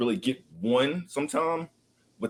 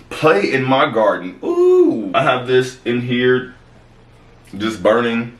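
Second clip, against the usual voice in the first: louder, playful sales pitch; punchy candle promo with teasing pauses; ad read; 7 dB louder than usual. Acted. Host pitches scented candles to listeners, playful ad read.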